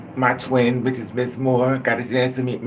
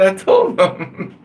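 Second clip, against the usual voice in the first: put-on slow naive kid; 7 semitones higher, 7 dB louder, much slower than usual. Naive child answer, slow.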